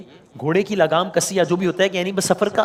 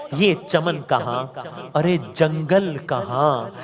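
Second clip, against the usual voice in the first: slow, drawn-out marsiya chant; elegy recitation; slower than usual. Acted. Preacher reciting Mir Anis marsiya to the mourners, slow and lamenting. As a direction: lament it slowly, line by line.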